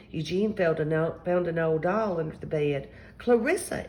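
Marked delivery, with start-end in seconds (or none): 3.2-3.9 higher, sudden cry of recognition; delighted find, called out; exclaiming. A narrator's reading. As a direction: exclaim the name on a high note. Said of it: "exclaimed Zelda".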